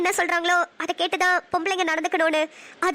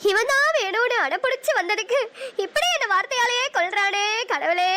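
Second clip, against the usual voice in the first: slow tearful lament; 2 semitones higher than usual. Acted. Wife laments to God, weeping.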